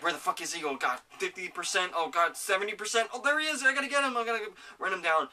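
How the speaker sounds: rising frantic play-by-play, pitch climbing high; excited gamer panic. Retold or imitated. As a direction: rattle it off like you're hunting someone mid-match. Frantic in-game hunt retold.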